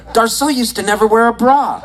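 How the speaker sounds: high-pitched, giddy outburst; overexcited blurt. Retold or imitated. Fan too excited to tell it right, high blurt. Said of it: "I got so excited".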